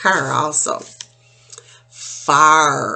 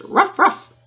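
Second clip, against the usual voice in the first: dog bark. Acted. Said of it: "He says".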